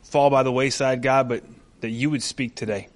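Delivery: low, soft, earnest prayer; hushed pastoral prayer. Real, not acted. Leads a prayer.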